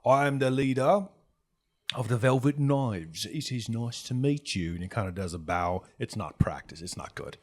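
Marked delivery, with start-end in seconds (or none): 0.0-4.7 slow, louder formal introduction easing off; self-important gang boss. Acted. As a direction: introduce yourself grandly.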